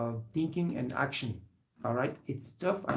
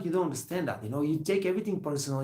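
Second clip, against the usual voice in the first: ordinary talk, nothing marked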